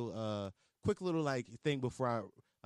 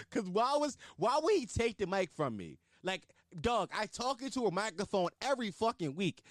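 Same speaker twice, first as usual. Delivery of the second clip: mock outrage; 9 semitones higher than usual. Real, not acted. Angry comic rant about Barry.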